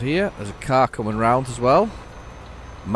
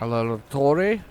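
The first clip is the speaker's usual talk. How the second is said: mild Italian echo; 3 semitones higher than usual. Retold or imitated. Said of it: "she says there".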